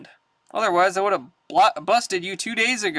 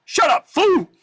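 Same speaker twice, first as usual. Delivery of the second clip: high, loud bark of Shut up fool; furious shout; angry yell; 11 semitones higher, 6 dB louder than usual. Acted. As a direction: blast it at him. B A yells at Hannibal.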